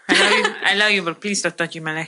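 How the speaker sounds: a light grandma voice, laughing; grandma's voice. Retold or imitated. Asked to say a line in her grandma's voice, lightly voiced grandma. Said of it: "I do my grandma's voice".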